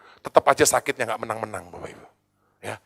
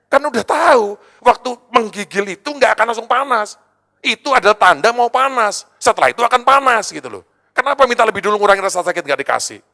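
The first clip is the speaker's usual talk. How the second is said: raised and higher, ranting in retold frustration; angry rant; 9 semitones higher, 7 dB louder than usual. Pastor reliving his fury at the hospital staff, loud angry rant. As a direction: let the old anger boil up loud. Sampai saya mau marahnya.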